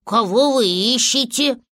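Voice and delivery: animals asking in mild wonder; lightly voiced puzzled critters; surprised question. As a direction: ask with a touch of surprise. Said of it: "удивлённо спросили".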